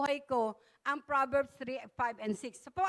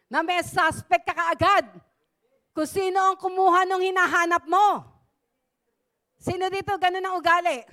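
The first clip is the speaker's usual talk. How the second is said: emphatic; 4 semitones higher, 8 dB louder than usual. Real, not acted. Preacher pressing the congregation.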